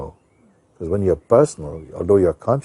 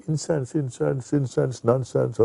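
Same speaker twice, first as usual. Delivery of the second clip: slow, higher mocking repeat of the word; scoffing elder; 7 semitones higher, 3 dB quieter than usual. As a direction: dismiss it as nonsense, lightly voiced. Old man mocking the word.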